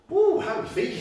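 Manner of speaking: high, loud whoop of relief; excited whoop. Real, not acted. Instructor whooping to the class after the set, high and excited. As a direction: cheer the class on.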